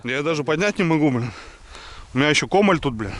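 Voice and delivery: straining while lifting; strained voice under heavy load; effort grunt. Real, not acted. Straining to lift heavy log.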